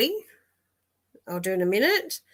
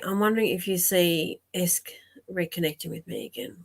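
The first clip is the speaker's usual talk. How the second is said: whispered reading. Real, not acted. Psychic reading Haley's question off the screen, whispered.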